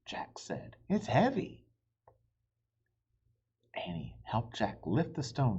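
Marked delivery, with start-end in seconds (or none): 0.9-1.7 high, loud strained voice; high strained complaint; straining. Acted. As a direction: push the words out under the weight. Boy straining to lift stone.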